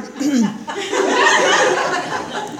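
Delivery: pointed, acted throat-clear; restrained throat clearing. Speaker trying not to be rude, pointed throat-clear. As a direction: clear the throat to hold back a retort. Holding back a rude reply.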